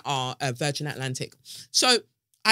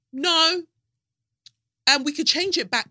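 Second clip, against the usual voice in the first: mocking airline voice; 10 semitones higher, 3 dB louder than usual. Airline refusing her refund.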